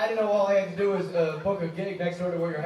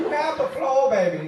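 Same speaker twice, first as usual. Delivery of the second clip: Big Mama; 5 semitones higher than usual. Acted. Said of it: "Big Mama Got It All".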